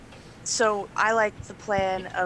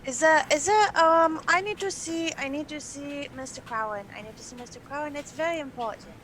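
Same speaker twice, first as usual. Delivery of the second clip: put-on high-pitched, frantic child pleading; crazy child; 6 semitones higher, 4 dB louder than usual. Gnome begging a guard to see Mister Crowan, crazy child. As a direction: plead urgently in a higher, childlike voice. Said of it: "you sound like a crazy child".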